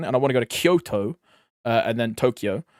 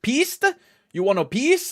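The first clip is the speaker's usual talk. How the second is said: high-pitched, puzzled questioning; mock language-barrier confusion, pitched high; confused ski instructor; 10 semitones higher, 4 dB louder than usual. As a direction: play a baffled European instructor, voice jumping up. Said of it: "talking to a instructor".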